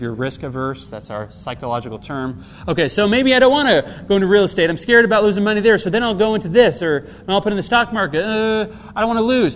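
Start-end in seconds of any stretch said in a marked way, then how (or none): 2.7-9.5 mildly anxious, louder and higher; worried investor. Acted. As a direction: think aloud nervously, talking yourself out of a risk. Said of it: "is this kind of scary work sometimes".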